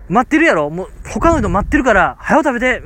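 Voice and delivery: lightly hammed gruff urging to eat fast; mild mock pushy shopkeeper. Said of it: "結構僕マイルドに言いましたけど". (待っている客を理由に急かす店主を、軽く誇張した声で)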